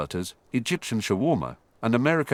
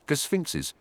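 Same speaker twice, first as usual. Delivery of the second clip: cheering; 6 semitones higher than usual. A narrator's reading. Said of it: "with a cheer for Egypt".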